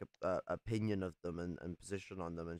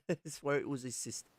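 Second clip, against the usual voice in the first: breaking into a laugh mid-line; chuckling through the owl voice; laughing mock Aussie owl; 5 semitones higher than usual. The owl retelling the plane scene, laughing.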